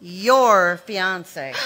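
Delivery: your fiancé, slow and pointed; cold reveal. Acted. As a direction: drop the name like a verdict, slowly. Reveals the sister's lover.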